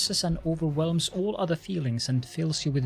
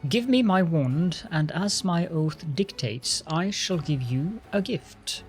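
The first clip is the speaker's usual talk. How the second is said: lordly lich voice. Acted. Undead lich speaks to crusader.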